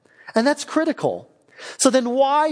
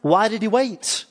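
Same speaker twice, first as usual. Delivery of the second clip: confused questioning; 3 semitones higher than usual. Acted. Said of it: "But I'm confused".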